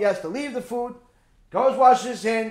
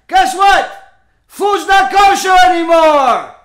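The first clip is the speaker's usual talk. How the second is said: shouted, high and loud, slowing down on the last words; sudden shout; 8 semitones higher, 10 dB louder, slower than usual. Acted. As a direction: burst out with the twist. Dramatic reveal to the audience.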